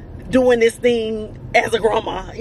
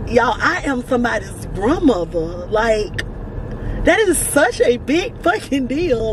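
fighting back happy tears; near tears; 3 semitones higher, slower than usual. Real, not acted. Grandma telling her viewers, near tears. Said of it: "I'm about to cry just thinking about it".

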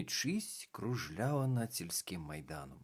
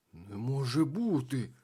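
amazed; 4 semitones higher, 3 dB louder than usual. A narrator's reading. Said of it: "здивувався клоун".

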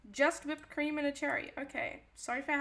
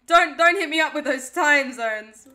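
loud, slow, hammed-up wail; mock crying; 13 dB louder than usual. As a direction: whine it like fake tears. Mock-crying over time zones.

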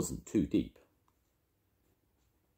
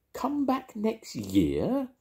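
hotly; much slower than usual. A narrator's reading. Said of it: "repeated Paddington hotly".

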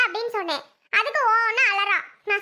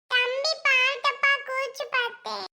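put-on high, slow child voice; little girl; 4 semitones higher, 3 dB quieter, slower than usual. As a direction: confess like a small child, dragging it out. Girl owns up to aunt. (சின்னப் பெண் குரல், இழுத்து)

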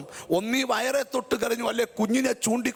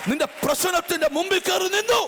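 preaching shout; 4 semitones higher than usual. Real, not acted. Preacher peaks on the climax.

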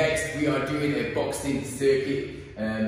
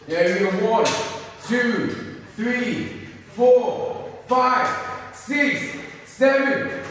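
hype friend cheering; 8 semitones higher, much slower than usual. Real, not acted. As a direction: pump up your partner. Coach hyping the last set.

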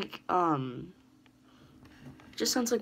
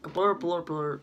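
fake foreign language; slower than usual. Shown as a demonstration. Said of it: "what English might sound to non-English speakers".

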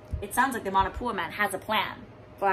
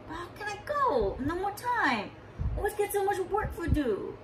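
sighing; 8 semitones higher, 5 dB quieter than usual. Acted. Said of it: "he sighed".

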